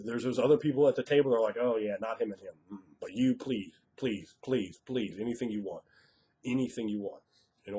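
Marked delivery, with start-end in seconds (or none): 1.6-7.2 mock pleading. Other players begging to be invited.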